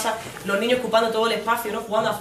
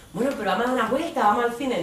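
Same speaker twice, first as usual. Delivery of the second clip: put-on eager deflecting girlfriend; 4 semitones higher than usual.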